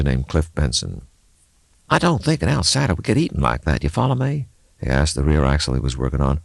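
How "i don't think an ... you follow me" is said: put-on higher, musing old mechanic voice; a grizzled local thinking aloud; gruff mechanic. Mechanic Levi talking to the axle, musing aloud.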